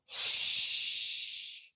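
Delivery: hushed shushing whisper. A narrator's reading. Little person shushing the family, whispered. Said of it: "whispered the little person".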